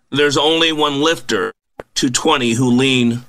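measured poem reading with a lift on each line start; reading a poem to open the show; poem recitation. Acted. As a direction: recite the verses with a steady, rhythmic cadence.

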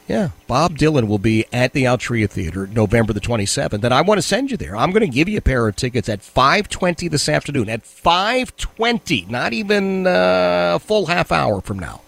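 upbeat radio giveaway read; radio contest promo. Acted. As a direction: pitch the ticket contest to callers.

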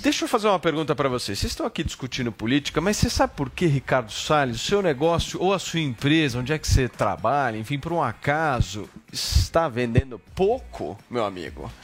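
fast pushy sales pitch; hard sell ad. Acted. Host launches a sponsored ad.

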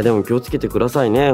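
normal talking voice

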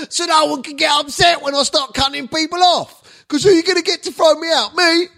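very high, worked-up squawk; defiant high-pitched boasting; cocky comic rant. Real, not acted. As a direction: build into a triumphant shriek. Mock defiant rant about his club.

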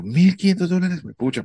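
high-pitched stunned repeat of the price; repeating the scammer's price in shocked disbelief; shocked echo. Retold or imitated.

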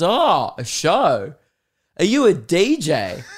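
lightly voiced keen stranger; curious pub bloke. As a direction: play up a stranger's eager curiosity. Voices the curious man in toilet.

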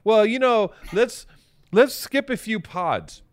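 a hint of a wheedling co-host; Maddie imitation. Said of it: "Maddie says to me".

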